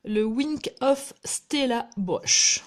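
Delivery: slow, deliberate English name in a French accent; careful English product name. Real, not acted. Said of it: "j'arrive pas à le dire en, en français".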